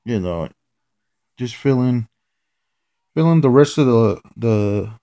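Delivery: put-on light Jamaican accent, laid-back. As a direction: casually slip into a Jamaican accent. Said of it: "doing my Jamaican voice here".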